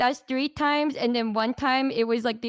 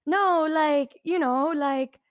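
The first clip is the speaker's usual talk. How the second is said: mock flustered explaining that settles down; flustered backpedal; 2 semitones higher than usual. Friend backpedals after calling it cute, flustered.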